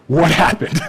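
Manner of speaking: fed-up parent pressing for answers; exasperated. Retold or imitated. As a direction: throw up your hands in disbelief. Exasperated questioner in retold scene.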